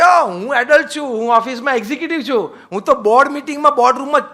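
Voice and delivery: mocking the boastful adult. Preacher mocking a youth who says he is an adult, high loud mock swagger. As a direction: lampoon the self-important grown-up. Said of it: "તમે એમ કહી શકો કે".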